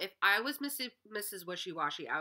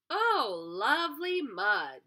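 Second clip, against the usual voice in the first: duck voice; 5 semitones higher, 6 dB louder than usual. Acted. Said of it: "said the duck".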